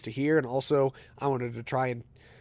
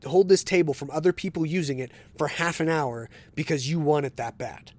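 heated retold retort. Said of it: "I said".

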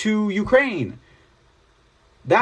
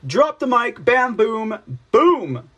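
gloating mic drop; 6 semitones higher, 3 dB louder, slower than usual. Real, not acted. Gloating over a quote.

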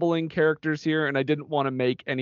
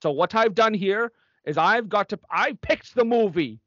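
stern nun announcing; 3 semitones higher than usual. Acted.

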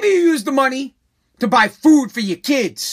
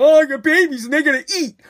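righteous people; 2 semitones higher, faster than usual. Retold or imitated. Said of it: "these righteous people".

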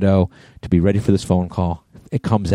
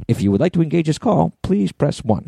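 automated phone voice; 7 semitones higher than usual. Retold or imitated. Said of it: "they're going".

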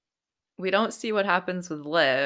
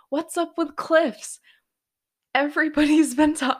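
exasperated disbelief; 10 semitones higher, 7 dB louder than usual. Real, not acted. Recapping the episode, vents to viewers in high exasperation. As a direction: throw your hands up at the show's cliffs. Exasperated rant about cliffs.

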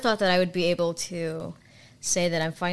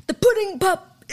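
higher, louder pitchman voice for an ice pop ad; hammed-up ad pitch from the old commercials; Bill Cosby impression; 12 semitones higher, 5 dB louder than usual. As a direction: sell the pop like an eighties TV spokesman. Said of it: "I'm just him in that sweater being like".

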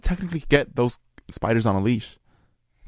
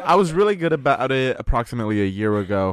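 laughing through a higher-pitched restatement; laughing correction; 4 semitones higher than usual. Real, not acted. Correcting themselves for co-hosts after being teased, laughing. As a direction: say it through a giggle.

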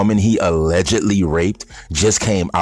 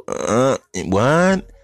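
baffled what; 5 semitones higher than usual. Retold or imitated. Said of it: "I'm like".

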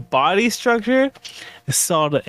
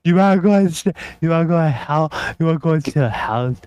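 put-on girl voice; faster than usual. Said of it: "your best girl voice".

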